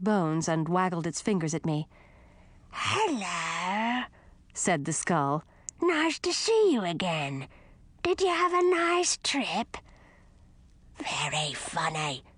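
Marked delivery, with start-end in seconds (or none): 2.7-9.8 bright sing-song greeting from a skull; chirpy and welcoming, rising high; cheery skull voice. Acted. Friendly skull voice. 11.0-12.2 slow soft deadpan sarcasm; dry and sour, soft and slow; sarcastic skull. Acted.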